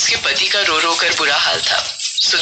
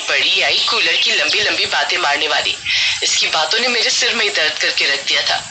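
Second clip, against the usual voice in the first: spiteful killer. Acted. Reena gloats after killing Sudha.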